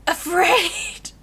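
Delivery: high yelped "Afraid!" like a fleeing animal; animal's yell. Retold or imitated. Wild animal yelling as it runs away, high loud yelp. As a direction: squeal "Afraid!" and bolt. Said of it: "they're just yelling".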